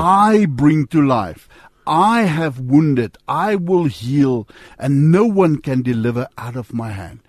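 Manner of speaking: slow, weighty reading of scripture, each phrase laid down; solemn scripture reading. Acted. Host reading Deuteronomy off the screen, slow and solemn. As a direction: read God's words slowly and with gravity. Reads scripture slowly aloud.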